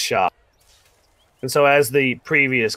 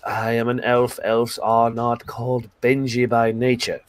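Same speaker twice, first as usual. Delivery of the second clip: a hint of a prim elf. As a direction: stiffly set the record straight, lightly voiced. Elf corrects his name.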